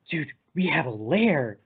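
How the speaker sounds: slowed-down, awestruck imitation; imitating someone amazed at a discovery; mock awe. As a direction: draw it out in pretend wonder. Retold awed reaction to finding lair.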